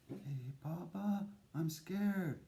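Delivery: put-on scared child. Child tells father he's scared.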